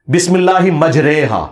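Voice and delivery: slow, deliberate بسم اللہ مجریہا; Quranic exception demo. Shown as a demonstration. Citing the one Quran word read majhool, slow recitation. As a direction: draw out مجریہا carefully. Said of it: "آپ نے مجریہا نہیں پڑھنا".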